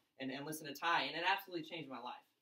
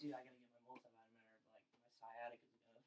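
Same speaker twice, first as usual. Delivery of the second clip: much softer, lower mock geezer; old man worry; 6 semitones lower, 17 dB quieter than usual. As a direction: croak it like a worried pensioner. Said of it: "I don't wake up and like".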